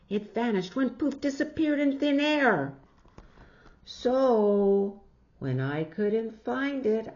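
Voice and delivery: put-on high, bright child voice rising; excited little girl. Jillian telling friends about her lost hat, high and excited. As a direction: explain it in a rush. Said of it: "Jillian explains hat".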